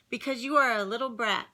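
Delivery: big sister losing patience with the pest; fed-up shout. Acted. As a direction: snap at the little brat. Sister shouting at younger sibling.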